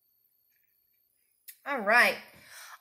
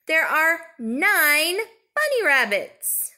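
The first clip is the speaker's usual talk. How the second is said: whispering; 3 semitones higher, 3 dB louder, much slower than usual. Acted. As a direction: hush it like a secret. Whispered count result to child.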